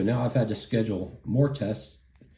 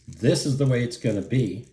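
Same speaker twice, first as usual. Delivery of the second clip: mildly raised, mock yelling; retold yell; 3 semitones higher, 3 dB louder than usual. Staffer yelling at patient in hospital bed, retold mild yell. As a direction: imitate him yelling, at a mild volume. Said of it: "The fucking dude yells at me".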